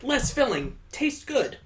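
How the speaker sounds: high, sing-out slogan parody; mock ad slogan. Reader riffing on the overwritten text, mock slogan voice. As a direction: toss out a high mock jingle line.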